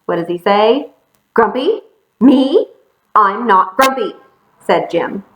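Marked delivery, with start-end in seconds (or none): 1.3-4.1 raised incredulous questions, then protest; lightly indignant, punchy on the short questions; indignant denial. Acted. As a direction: act mildly affronted, then deny it. Monkey's repeated indignant denial.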